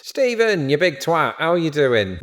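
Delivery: high-pitched call to a mate, acted; friendly insult. Brit greeting a friend with insults, playfully rude. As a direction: greet a friend with mock abuse. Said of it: "using insulting language toward even our friends".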